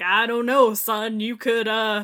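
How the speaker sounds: loud, folksy southern blowhard; lightly voiced Foghorn Leghorn impression. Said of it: "Foghorn Leghorn ass".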